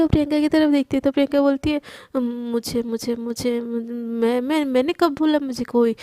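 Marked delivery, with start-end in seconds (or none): 2.2-6.0 पहले धीमी दबी आवाज़, फिर ऊँची होती हकलाहट; पकड़ी गई लड़की की तरह अटक-अटक कर बोलो; घबराई हुई हकलाहट. Acted. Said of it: "Priyanka की हालत देख के". (पकड़े जाने पर सहेली से घबराकर हकलाती हुई)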